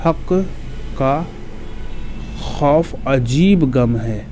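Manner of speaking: slow, word by word with pauses; slow dictation. Shown as a demonstration. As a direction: spell out हक का खौफ अजीब गम है for memorising. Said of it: "एक जुमला आप लोग याद करके रखिएगा".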